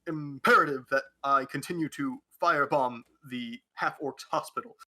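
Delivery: hammy Obama address, deliberate pauses; Barack Obama impression. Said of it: "what if I do an accent of Barack Obama?".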